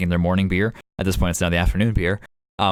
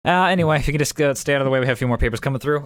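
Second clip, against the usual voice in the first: higher, brisk clerk brushing them off; officious young clerk; 5 semitones higher than usual. Acted. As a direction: shoo them aside politely but quickly. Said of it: "he kinda shrugs and just goes".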